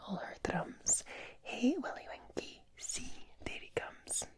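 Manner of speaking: rhythmic bedtime recitation in a whisper; whispered nursery rhyme. Pretend. Reading a Scottish bedtime rhyme to the viewer, whispered.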